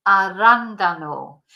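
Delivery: "arándano" with a strong beat on RÁN; stress on second A. Shown as a demonstration. Teacher showing learners where the accent falls, stressed second A. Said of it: "there's an accent on the second A".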